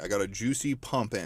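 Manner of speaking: Tucker. Retold or imitated. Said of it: "That's what Tucker would say".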